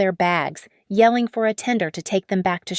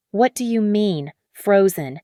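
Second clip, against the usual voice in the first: roared. Acted. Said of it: "He roared at someone".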